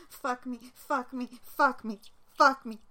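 from firm to loud cries; rising in volume with each repeat; building cries. Real, not acted.

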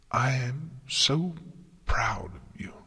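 slow, halting, half-whispered praise; weak whisper. A narrator's reading. Collapsing Celestia to Twilight, proud, in a weak whisper. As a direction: breathe it out slowly, trailing into whisper.

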